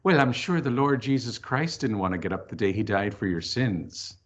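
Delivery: lightly voiced Irish mother, a touch of reproach; a hint of a stern Irish mother's brogue; mother's Irish accent. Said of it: "my mother would say in her Irish accent".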